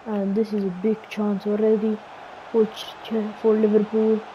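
lively TV match commentary; mock football commentator calling the match; play-by-play commentary. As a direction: call the action like a broadcaster. Self-commentating a football game.

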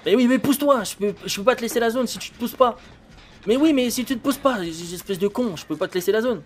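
loud, exasperated yelling at a teammate; raging gamer. Real, not acted. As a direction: shout it out, fed up and annoyed. Blocked by teammate at generator. (gamer énervé qui crie)

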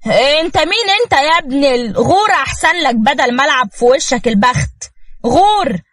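acted indignant telling-off; angry dismissal. Husband chases off the man claiming his wife, angry. Husband threatens the stranger away.

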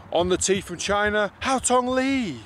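announcer call. Shown as a demonstration. Practising starter announcement.

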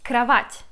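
krawat said the Russian way, open a's; teacher shows the Russian krawat. Shown as a demonstration. Teacher contrasting the Russian word for viewers. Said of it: "so similar to a Russian word".

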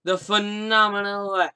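booming, drawn-out ring announcer intro. Pretend. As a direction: stretch every name out, big and loud. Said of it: "in my announcer voice".

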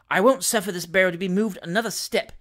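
mildly resolute protest. Acted. Gentleman refusing to ride further in the barrow, resolute. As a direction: put your foot down, understated. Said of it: "said Mister Pickwick resolutely".

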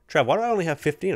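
a hammed-up cry of betrayal; mock outrage. Vet finds only fifteen bucks in his stall, mock outrage.

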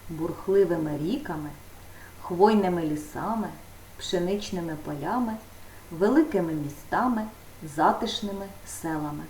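slow, quiet, word by word, for writing down; slow dictation. Shown as a demonstration. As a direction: read it slowly so the pupil can write. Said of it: "прикметники разом з іменниками в правильній формі".

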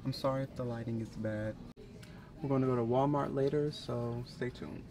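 talking with a retainer in; slightly lisped, retainer in mouth. Real, not acted. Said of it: "I have my retainer in".

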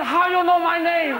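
a joke waiter voice, put on for the punchline; mock Chinese accent. Comic plays waiter answering a customer, mock accent.

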